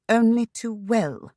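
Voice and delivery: caustic scoff. A narrator's reading. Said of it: "She scoffed caustically".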